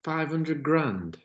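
high, slow incredulous question; can't believe the number; shocked disbelief. Real, not acted. Disbelief at ball price.

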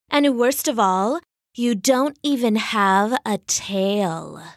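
lightly voiced, haughty scorn, slowing at the end; snooty put-down; condescending cheetah. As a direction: talk down to her. Cheetah belittles the frog.

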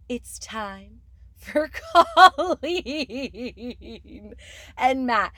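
giggling through the names; laughing. Real, not acted. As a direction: breaks into a high laugh. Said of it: "can't even say their names without laughing".

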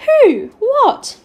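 high, loud, startled questions; flustered bewilderment. A narrator's reading. Secretary baffled by the boy's plea, exclaiming.

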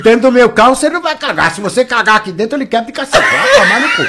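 hammed-up scolding that breaks into laughs; half-laughing retold fury; mock angry threat. Retold angry warning to girl.

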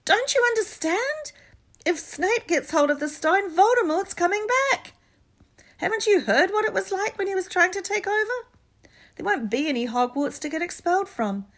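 loud, passionate outburst; shouting. A narrator's reading. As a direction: shout them down in fury. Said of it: "Harry shouted".

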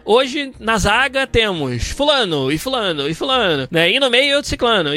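lightly voiced match narrator naming players; football narrator. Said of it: "o narrador vai falar".

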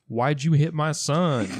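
attempted German accent, slowed down. Podcaster quoting a classic line to co-hosts, attempted German accent. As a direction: do your best, not very convincing German accent. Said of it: "That was my best German accent".

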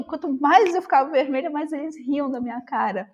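usual speaking voice

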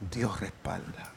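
slow, barely-there "Dios respalda"; hushed echo. Acted. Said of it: "echo of the refrain, near whisper".

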